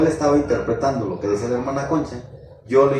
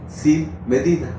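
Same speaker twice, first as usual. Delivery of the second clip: slow, emphatic, higher; stressed answer; 5 semitones higher, slower than usual. Acted. Preacher finishing his own question for the congregation, slow and stressed. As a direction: drag out both words as the punch line.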